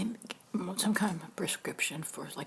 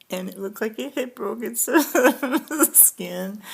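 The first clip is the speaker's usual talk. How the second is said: louder, breaking into a laugh mid-sentence; 5 semitones higher, 12 dB louder than usual. Real, not acted. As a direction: laugh despite herself at the grim detail. Laughs describing the rash.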